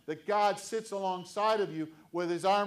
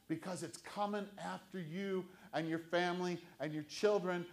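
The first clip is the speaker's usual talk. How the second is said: usual speaking voice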